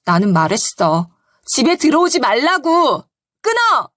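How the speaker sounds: rising into a sharp final order; wife firmly shutting down her husband on the phone; firm retort. Retold or imitated. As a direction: cut him off flat and hang up. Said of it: "저는 단호하게 이야기했어요".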